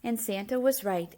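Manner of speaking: usual speaking voice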